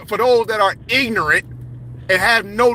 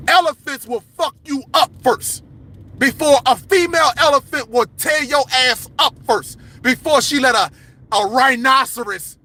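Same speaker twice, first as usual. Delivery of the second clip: passionate yelling. Real, not acted. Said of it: "That's why I'm fucking yelling".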